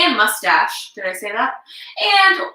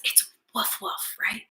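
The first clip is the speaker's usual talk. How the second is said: mock wrong answer; 3 semitones lower, 11 dB quieter than usual. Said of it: "remind me what an owl says".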